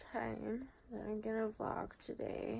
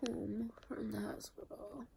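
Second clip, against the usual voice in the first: in pain. Real, not acted. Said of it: "I'm in a lot of pain".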